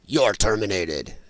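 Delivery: low, slow Austrian action-hero catchphrase; Arnold Schwarzenegger. Retold or imitated. Schwarzenegger turning on the View hosts, low, slow threat. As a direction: drop low and deliver the verdict slowly. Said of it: "if he would have turned to look at Whoopi".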